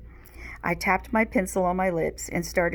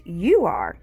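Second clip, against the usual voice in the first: firm, loud bicker; insisting; 6 dB louder than usual. Acted. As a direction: shoot it right back. Kids bickering, Max insisting.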